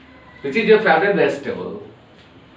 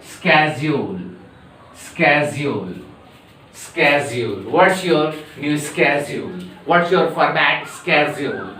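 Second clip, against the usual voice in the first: schedule said as sked-jool, American; American pronunciation; 3 semitones lower than usual. Shown as a demonstration. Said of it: "then the short should be".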